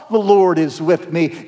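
dry mock of "The Lord is with me"; flat sarcastic echo; sarcastic repeat. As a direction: toss the words back in disbelief. Gideon repeats the angel mockingly.

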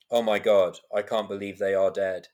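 deadpan reading. Retold or imitated. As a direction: read emotional lines with no feeling. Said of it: "they're deadpan".

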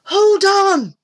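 high, loud long call; shout. A narrator's reading. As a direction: shout across water to hang on. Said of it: "shouted Mick".

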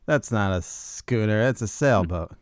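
slow, drawn-out film line; movie quote. Acted. Co-host quoting a Mallrats scene to his friend, slow movie quote. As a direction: quote it slowly, lightly in character. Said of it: "Mallrats there. He goes".

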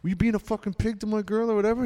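fast, lightly voiced tough bouncer; imitating bouncer. Bouncer confronting the dancer, lightly voiced tough challenge. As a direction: confront him like a bouncer, quickly. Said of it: "the bouncer goes".

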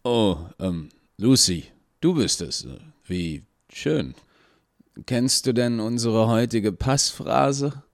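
suddenly unsure, stammering a little; flustered. A narrator's reading. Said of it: "weniger ominös und sichtlich beunruhigt". (nervös und verunsichert, höher)

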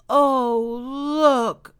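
high, loud cry of discovery; cried out. A narrator's reading. Young beaver finding a baby in the stump, crying out. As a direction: call your brother over in amazement. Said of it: "cried Toodle".

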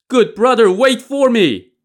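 very high, loud cry, stretched at the end; desperate calling. A narrator's reading. Li Kui can't catch up with his brother, calling desperately. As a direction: call desperately after someone pulling away.

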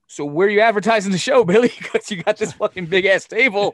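high, loud, challenging; incredulous. Retold or imitated. Asking Billy where the show is advertised, mock-challenging. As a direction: call him out on the big table.

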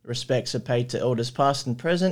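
measured, formal acknowledgement of country in a steady reading voice. Acted. Host opening the podcast, reading a formal acknowledgement of country. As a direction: read it like an official opening statement.

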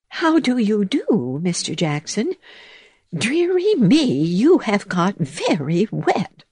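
high mouse voice. Acted. Mouse greets toad.

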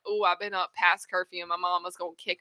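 half-crying kid's fret, hammed-up; mock worried whimper. Kid up past curfew fearing his mama, mock whimpering. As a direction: whine it like a kid dreading mama in the morning. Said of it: "you're like".

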